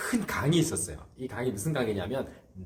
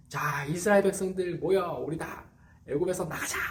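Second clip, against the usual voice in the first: higher-pitched, lightly acted call to a crowd; mock rallying call; 5 semitones higher than usual. Pastor as Moses calling Israelites out, mock rally. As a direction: gather everyone up with a mock rally. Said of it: "이렇게 했을까요?".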